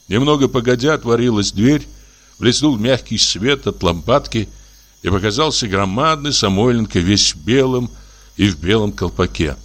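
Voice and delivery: ordinary delivery, nothing marked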